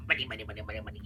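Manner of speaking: greedy cartoon crab muttering money; Mister Crab voice. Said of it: "In the Mister Crab voice".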